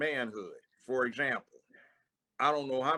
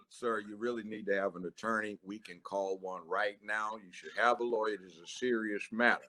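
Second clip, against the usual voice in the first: calm officer voice; 3 semitones lower, 6 dB quieter than usual. Retold or imitated. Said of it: "I'm watching this confession".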